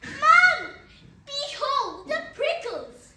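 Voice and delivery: a sudden cry for help on Mom; shouting. Retold or imitated. Child calls out to mom, shouting. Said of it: "I shouted".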